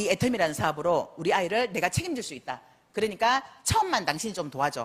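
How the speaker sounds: ordinary talk, nothing marked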